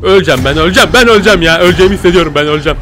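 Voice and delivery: loud, rushed panic; panicked. Real, not acted. Gamer hiding from a monster, panicking. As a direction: gabble it out in real panic. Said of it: "Çok geriliyorum şu an".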